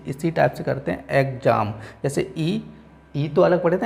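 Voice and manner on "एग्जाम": एग्जाम said as two parts, एग्-जाम; pronunciation demo. Shown as a demonstration. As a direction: show the syllable break in एग्जाम. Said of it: "जब इसका उच्चारण करेंगे तो इसी". (एग्जाम को एग्-जाम तोड़कर)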